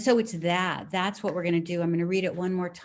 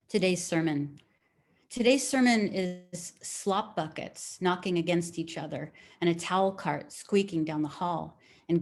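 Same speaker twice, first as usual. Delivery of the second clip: poem reading. Acted. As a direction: let each image land, unhurried. Teacher reads poem aloud.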